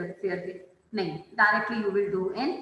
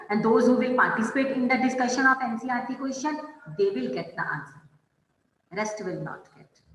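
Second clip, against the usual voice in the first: slow warning; much slower than usual. Real, not acted. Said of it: "teacher warning class slowly".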